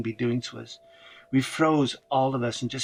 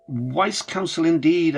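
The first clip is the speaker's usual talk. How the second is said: wry thought; 4 semitones higher, 5 dB louder, slower than usual. A narrator's reading. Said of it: "I thought".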